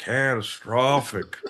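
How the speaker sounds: slow, stretched CATASTROPHIC; Al Gore. Retold or imitated. Capping an Al Gore joke, drawn-out CATASTROPHIC. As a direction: draw out CATASTROPHIC syllable by syllable. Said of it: "The way he says".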